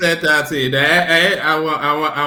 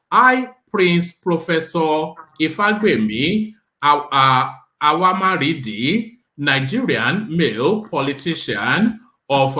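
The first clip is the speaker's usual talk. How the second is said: measured, declamatory affidavit reading; formal legal reading; slower than usual. Acted. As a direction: read it out phrase by phrase like a solemn court document. Reads a legal document aloud.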